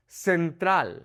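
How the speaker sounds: Central as sen-TRAHL; Spanish "Central" with an open a; Spanish pronunciation. Shown as a demonstration. Teacher models the vowels, Spanish Central. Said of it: "focusing on the vowel sounds".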